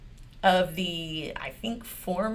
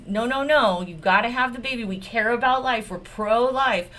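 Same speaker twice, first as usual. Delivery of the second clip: mock pious politician; 3 semitones higher, 4 dB louder than usual. Mocking Republicans' pro-life line.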